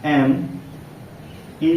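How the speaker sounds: each letter of एस एच ए एम ई spaced out slowly; teacher dictating letters of a word one by one; slow letter-by-letter spelling. Shown as a demonstration. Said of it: "देखिए ऐसे".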